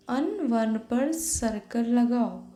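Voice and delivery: slow, clear reading of the task; slow instruction read. Shown as a demonstration. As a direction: read the instruction slowly for kids.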